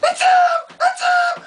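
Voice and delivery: put-on high, loud squealing kid; excited kid. A boy recognising his hero at the door, high and loud. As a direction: squeal like a starstruck ten-year-old. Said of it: "he's like".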